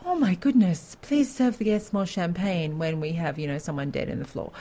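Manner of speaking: mock old-school radio drama line; lightly hammed-up society hostess gasp, easing off; overacted old-time radio. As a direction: put on a touch of overacted melodrama. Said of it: "it's very overacted, like".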